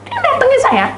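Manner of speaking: very high imitation sobbing voice; mock tearful squeal. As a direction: speak through a comic high wail. Narrates through imitated crying.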